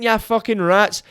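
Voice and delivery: hammed-up English accent insult; mock English accent. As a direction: sneer it in a cartoon English accent. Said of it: "'cause I done an English accent".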